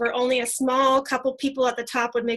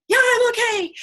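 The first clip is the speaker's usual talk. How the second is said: much higher, louder, tear-choked; tearful reassurance; 11 semitones higher, 5 dB louder than usual. Retold or imitated. Reassuring her worried friend while crying, mock tearful high voice. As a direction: squeak it out through happy tears. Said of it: "And I'm like".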